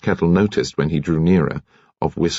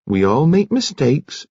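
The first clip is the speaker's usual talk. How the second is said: slow, soothing and comfortable; said comfortably; 8 semitones higher than usual. Acted. Nurse comforts the upset commander, slow and soothing. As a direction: ease him with a kindly word. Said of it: "said Nurse Kettle comfortably".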